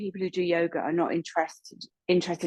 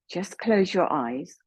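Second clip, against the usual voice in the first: unhurried yoga teacher guidance, pausing between instructions; measured meditation-leading voice with long pauses; guided meditation. Real, not acted. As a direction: guide them gently from one breath to the next. Leads a chakra breathing meditation.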